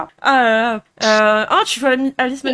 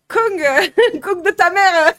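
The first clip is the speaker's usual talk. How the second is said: put-on laughing southern accent with strong g; Marseille accent; 6 semitones higher, 4 dB louder, much slower than usual. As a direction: swear it out Marseille style, laughing. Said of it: "on a beaucoup de G dans notre français".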